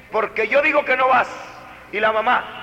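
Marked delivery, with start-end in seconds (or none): 0.1-1.3 loud, fast, bossy father; stern insistence. Retold or imitated. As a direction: end the argument.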